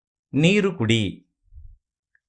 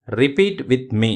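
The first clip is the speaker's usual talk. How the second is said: slow teacher cue; much slower than usual. Shown as a demonstration. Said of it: "teacher cues learners to repeat".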